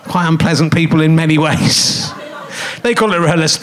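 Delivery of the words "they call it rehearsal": mock German accent on rehearsal. Shown as a demonstration. To the audience, mock German accent. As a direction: say it like a stiff German. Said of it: "they do it in a German accent like I did just then".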